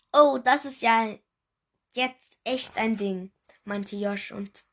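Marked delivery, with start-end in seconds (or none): 0.1-3.3 mock surprise, a bit louder; fake surprise. Josh fakes surprise at the found candy, mock amazed. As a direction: pretend to be amazed, hammed-up. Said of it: "tat total überrascht".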